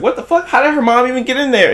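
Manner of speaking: mock shock. Friend shocked on the phone.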